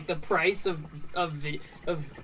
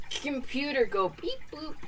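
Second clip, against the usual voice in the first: high, dumb caveman talk; caveman computer talk; 8 semitones higher, 3 dB quieter than usual. Pretend. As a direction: say it like a simple caveman.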